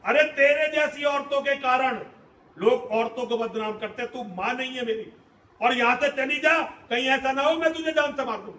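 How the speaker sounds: a son's wounded fury, lashing out at his mother; Karna's bitter rebuke. Acted. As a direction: accuse her, building to bursts of loudness. (कर्ण का माँ पर कड़वा गुस्सा)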